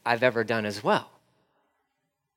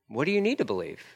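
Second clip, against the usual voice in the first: gentle, softer echo of the question; softer repeat; 7 dB quieter, faster than usual. Acted. Jesus gently repeating the question to a doubter, softer. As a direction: ask it again, quietly.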